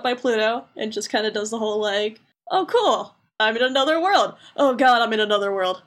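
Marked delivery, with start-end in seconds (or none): 2.5-4.3 mock delight. Sora waking up in another world, mock delight. 4.6-5.8 sinking mock dread; mock dismay. Sora realizing he is in another world, mock dismay. Retold waking, dismay sets in.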